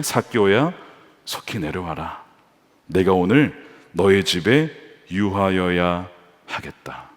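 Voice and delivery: low, slow and gentle calling down; Jesus tenderly calling Zacchaeus down from the tree. Acted. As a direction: call him down kindly and unhurried.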